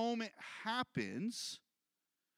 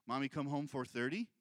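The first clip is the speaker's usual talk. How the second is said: low, questioning imitation of the son; lightly voiced son asking when mom returns; 7 semitones lower than usual. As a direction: ask it like the boy, rising at the end. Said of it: "He'll actually say".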